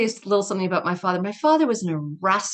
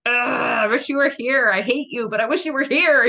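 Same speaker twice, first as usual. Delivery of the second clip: tearful, exasperated plea, pitched up; half crying out at her dead father; frustrated cry; 5 semitones higher, 4 dB louder than usual. Retold or imitated. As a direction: cry of love and resentment at once. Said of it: "out of frustration a couple times".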